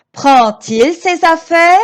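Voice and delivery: "Prend-il" linked with a T sound, prend-t-il. Shown as a demonstration. Teacher to children showing the D spoken as T in "Prend-il". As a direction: say "Prend-il" as pran-til, D voiced as T. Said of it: "mais je le prononce T à l'oral".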